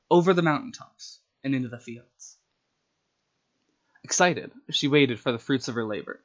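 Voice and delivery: steady, measured storybook reading; story narration. A narrator's reading. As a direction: read the tale out like a storyteller. Reads her story aloud.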